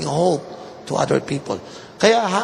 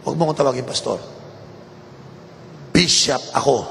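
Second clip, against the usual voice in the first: proud bishop; 4 semitones lower, faster than usual. Retold or imitated. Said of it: "sabi niya".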